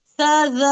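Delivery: स, ज as light, thin "sa, za"; thin, normal letters. Shown as a demonstration. Teacher drilling the thin letters before the thick one, light स, ज. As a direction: keep स, ज thin with an open short vowel. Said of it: "इसे हमें normal पढ़ना है, बारीक".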